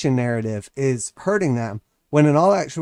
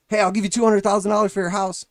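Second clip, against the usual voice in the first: higher, called across the yard; hollering an offer over the fence; neighbor yelling; 7 semitones higher than usual. Retold or imitated. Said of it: "and he goes".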